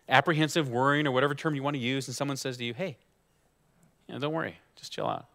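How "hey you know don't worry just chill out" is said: soft, casual reassurance; mock soothing. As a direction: imitate someone offhandedly telling a worrier to relax. Mimics someone soothing the anxious.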